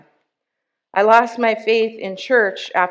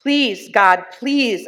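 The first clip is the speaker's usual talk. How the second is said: loud, desperate plea for help; desperate begging; 2 semitones higher, 5 dB louder than usual. Retold or imitated. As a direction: call out to God, begging. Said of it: "I begged".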